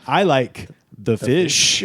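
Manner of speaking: slow drawn-out Trump quote; Trump impression. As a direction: mimic Trump slowly. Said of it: "in which he says".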